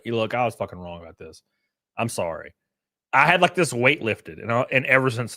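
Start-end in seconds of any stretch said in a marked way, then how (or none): 0.1-2.5 lower, quiet sincere apology. Retold or imitated. Younger self admitting to a friend he was wrong, quiet and sincere. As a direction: own up humbly, lower. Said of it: "I swallowed and was like".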